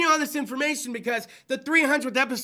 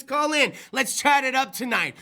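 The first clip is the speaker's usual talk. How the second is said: ordinary delivery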